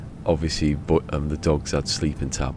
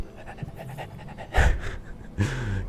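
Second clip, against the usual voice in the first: quick breathy dog pants; dog panting; 6 semitones higher, 5 dB quieter than usual. Retold or imitated. Imitating a dog on the phone, panting. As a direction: pant like an excited dog. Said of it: "Like a dog".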